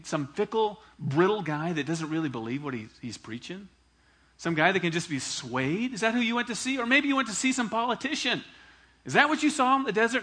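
teasing, mounting questions. Acted. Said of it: "He's smiling, he's laughing".

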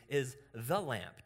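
slow, with "the" weighted; drawn-out, emphatic "the"; stress on the. Shown as a demonstration. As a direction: hit "the" in "Is the lamp". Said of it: "The Greek actually reads".

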